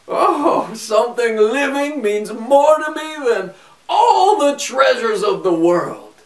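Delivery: high, squeaky little man asking a price; a small trickster drives a bargain; sly little man. A narrator's reading. Little man refuses riches.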